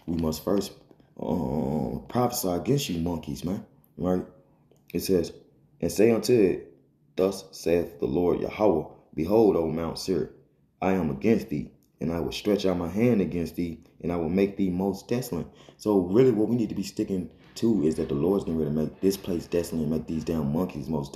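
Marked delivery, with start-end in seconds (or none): 5.8-15.5 scripture reading. Acted. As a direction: read the verse deliberately. Reads scripture aloud.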